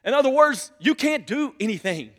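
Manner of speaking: loud, insistent sermon delivery; forceful preaching. Real, not acted. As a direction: press the point on the congregation.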